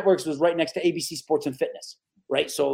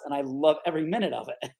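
normal talking voice

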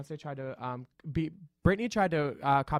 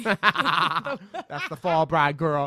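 mock grand voice; 2 semitones higher, 7 dB louder, much slower than usual. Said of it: "we talking funny".

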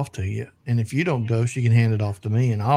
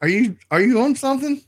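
much higher, teasing disbelief; high incredulous; 11 semitones higher than usual. Real, not acted. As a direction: ask it in squeaky mock alarm. Teasing disbelief after odd name.

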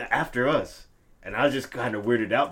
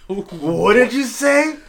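high, slow, loud cartoon voice; SpongeBob meme quote; 10 semitones higher, 9 dB louder, much slower than usual. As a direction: drag it out like an outraged cartoon character. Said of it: "quote so many damn SpongeBob memes".

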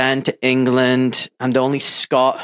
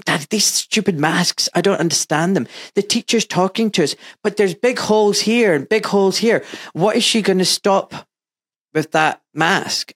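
put-on lightly raised child's voice, higher pitch; a father imitating his five-year-old's puzzled complaint; voicing his little daughter; 6 semitones higher than usual. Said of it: "my little daughter came home one day from school and said".

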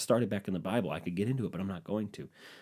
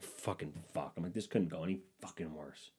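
low, muttered swearing; frustrated mutter; 3 semitones lower, 11 dB quieter than usual. Retold or imitated. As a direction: grumble it under your breath.

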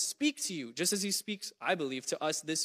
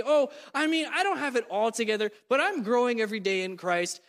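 higher, louder, falsely modest humble brag; mock humble brag; 4 semitones higher, 4 dB louder than usual. Churchgoer to the congregation, mock humble brag. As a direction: play it as a smug humble brag, lightly mocking. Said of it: "like, humble brag".

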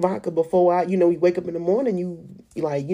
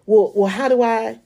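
urgent plea; 5 semitones higher, 4 dB louder than usual. Retold or imitated. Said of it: "pleading question to God".

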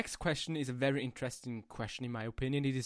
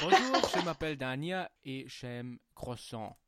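schoolbook French. Shown as a demonstration. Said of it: "I can try".

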